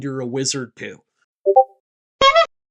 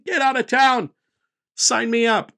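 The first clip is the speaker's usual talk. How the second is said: higher, eager sales cheer; mock excitement; 6 semitones higher, 4 dB louder than usual. Creator mocking eager buyers of fancy sandwiches, higher excited cheer. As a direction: sell it like a thrilled customer.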